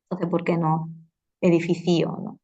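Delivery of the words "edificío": "edificio" as e-di-fi-CÍ-o; stress on CI. Shown as a demonstration. Teacher repeating students' question, "edificio" stressed on CI. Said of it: "la sílaba ci la penúltima".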